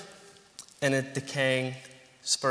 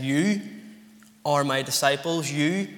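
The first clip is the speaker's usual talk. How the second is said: jab the word You at them like a pointing finger; emphatic You, as if pointing at the disciples; stress on You. Acted. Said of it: "the word translated "you" is emphatic".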